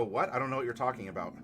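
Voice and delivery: quick, fake-innocent denial; feigned innocence. Denying the puns to chat, quick mock innocence. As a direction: play dumb and rattle it off fast. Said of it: "just go".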